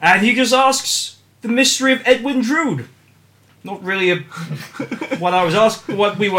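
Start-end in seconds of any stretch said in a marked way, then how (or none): 1.4-2.9 dramatic title read. Shown as a demonstration. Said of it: "question mark?".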